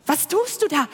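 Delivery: hissing creature. Acted. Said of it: "zischte das Tier".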